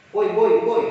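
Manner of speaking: put-on a child yelling boy, boy, boy; calling out. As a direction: call out to a parent across the room. Child calling his parent.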